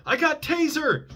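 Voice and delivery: high, loud mock cop shout; imitating a cop yelling. Cop warning the suspect under the car, high loud shout. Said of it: "I hear a cop yell".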